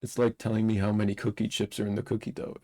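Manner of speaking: light imitation of a London accent. Reading a quote to his co-host in a hint of London accent. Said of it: "If you read it in his accent, it would sound awesome".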